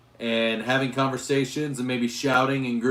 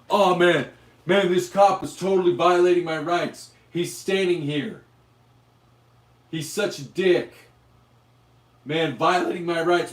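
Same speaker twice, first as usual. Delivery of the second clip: a lightly voiced whiny protester, a bit higher and louder; mock protester whine; 5 semitones higher, 4 dB louder than usual. Streamer mocks protesters griping about a cop, whiny. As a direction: poke fun at a protester complaining about the cop. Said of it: "they're doing this".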